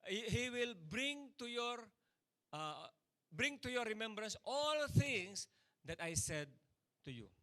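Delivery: slow, measured voice quoting scripture; quoting Jesus. Retold or imitated. Preacher quoting Jesus to the church, slow and solemn. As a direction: lay out each word slowly and solemnly. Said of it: "ang sabi ni Jesus Christ".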